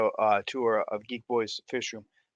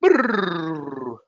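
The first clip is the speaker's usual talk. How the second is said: lip trill; 3 semitones higher, 5 dB louder than usual. Shown as a demonstration. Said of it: "I had to do".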